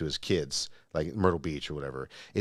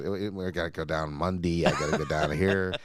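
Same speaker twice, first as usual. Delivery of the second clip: put-on Pittsburgh accent; 2 semitones lower than usual. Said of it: "like when someone says".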